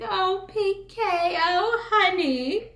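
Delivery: high, airy mock "oh honey"; imitating a flustered wife. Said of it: "She's like".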